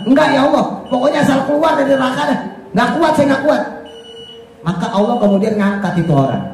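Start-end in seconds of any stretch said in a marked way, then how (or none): 0.1-3.6 higher, fast, pleading sinner; desperate sinner begging. Acted. Sinner begs Allah to let him out of hell, higher and pleading. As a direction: begs in a rush to get out.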